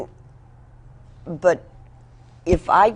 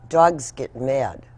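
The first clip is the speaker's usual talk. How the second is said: calm grandmother; 4 semitones lower than usual. Retold or imitated. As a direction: recall grandma's calm, unhurried correction. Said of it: "very calmly and say".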